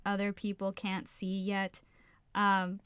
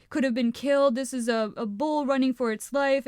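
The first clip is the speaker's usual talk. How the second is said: louder mock ranting; imitated rant; 2 semitones higher, 5 dB louder than usual. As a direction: imitate a guy going off on people. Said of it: "going on this rant".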